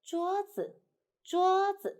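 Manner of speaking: 桌子 joined, high 桌 sliding to a light 子; smooth neutral tone. Shown as a demonstration. Teacher correcting the wrong take, 桌子 smoothly joined with light 子. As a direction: hold 桌 high and let 子 fall lightly. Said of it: "so we say".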